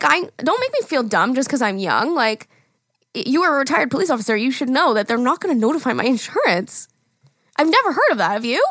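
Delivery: sassy, indignant pushback. Retold or imitated. Young driver to retired officer, sassy. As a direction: talk back with attitude, pitch swinging up on the challenge. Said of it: "He said I was getting sassy".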